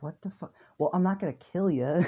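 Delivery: giggling mock slayer reply; can't keep a straight face, laughing; laughing through it. Demon slayer voiced while laughing.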